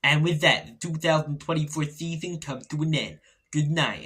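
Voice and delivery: dramatic movie-trailer voiceover; end-of-season reel voiceover. Pretend. For a fan's end-of-year reel, a mock dramatic voiceover. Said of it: "I sound like that fella in voiceovers".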